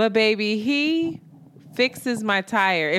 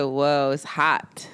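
slow, lower, deadpan; a hint of slow, understated man; his flat reply; 5 semitones lower, much slower than usual. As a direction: drag it out like a man with nothing to say. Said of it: "He said".

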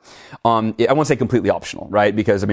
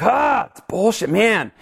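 retold frustration; 9 semitones higher, slower than usual. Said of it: "And then I'm like".

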